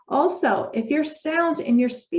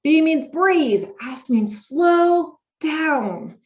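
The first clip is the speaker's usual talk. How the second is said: slow emphatic spelling out; 7 semitones higher, 4 dB louder, much slower than usual. Shown as a demonstration. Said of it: "it's called Be Slow".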